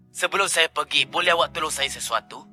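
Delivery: soft, fading goodbye; quiet farewell. Acted. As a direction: let it fade to nothing. Farewell before surrender.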